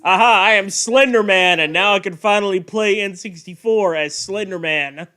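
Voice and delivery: lightly acted gloating monster; a hint of playful villain boasting; mock Slender Man. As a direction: announce it as a mock-triumphant character. Jokingly speaks as Slender Man.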